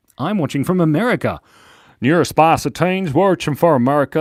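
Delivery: put-on American accent. An Australian speaker shows off their American accent. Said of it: "That's my American accent".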